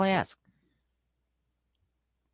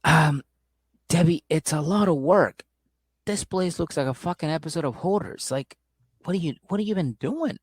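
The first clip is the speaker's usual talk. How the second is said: The speaker's mock exasperation; 3 semitones higher than usual. The speaker confronting Debbie about the hoard, mock exasperated. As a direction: protest with mild exasperation. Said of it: "He's like".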